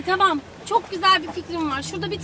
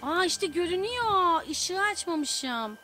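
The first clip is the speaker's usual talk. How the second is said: whispering; 3 semitones lower, 6 dB quieter than usual. Real, not acted. Whispering near a creepy house.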